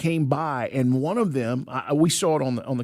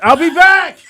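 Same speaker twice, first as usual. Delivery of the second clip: loud, high hammed-up catchphrase; mock Terminator line; 11 semitones higher, 9 dB louder than usual. Host joking the mother deer left for food. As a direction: throw in the movie line. Movie quote done loudly.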